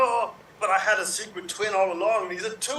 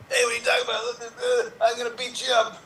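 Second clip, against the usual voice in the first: tough guy bully; 4 semitones higher than usual. Acted. Improv Arnold-style bully.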